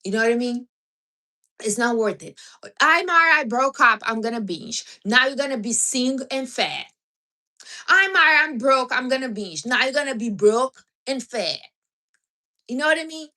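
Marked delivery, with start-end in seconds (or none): 2.8-4.8 mock breakup binger. Mocking a dumped binger. 7.9-9.7 mock broke binger.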